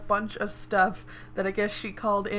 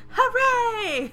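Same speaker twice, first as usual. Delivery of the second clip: laughing hooray; 7 dB louder than usual. Real, not acted. Cohost laughing mid-cheer.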